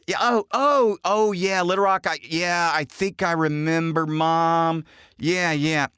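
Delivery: high-pitched, appeasing mock remembering; feigned recognition. Son appeasing mom about someone forgotten, high feigned recognition. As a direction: pretend it suddenly comes back to you.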